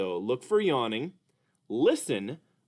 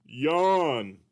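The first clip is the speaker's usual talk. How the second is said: Mister Dolphin puppet; 3 semitones higher, 4 dB louder than usual. Acted. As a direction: play a sleepy, sing-song puppet. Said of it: "Mister Dolphin".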